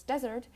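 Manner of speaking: "desert" stressed on its first syllable. Shown as a demonstration. Teacher contrasting two words, "desert" stressed on first syllable. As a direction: punch the start of "desert". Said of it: "has its stress on the first syllable".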